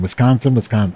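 practice Wisconsin until it comes out right; Wisconsin said carefully. Shown as a demonstration. Reading the indictment, she drills Wisconsin, careful and deliberate. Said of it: "I'm gonna say Wisconsin properly".

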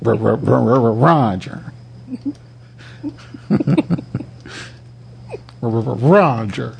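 stuttering tweaker voice; jittery, halting meth-head stammer; jittery stimulant high. Acted. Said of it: "Do the tweaker, the whole thing, like before".

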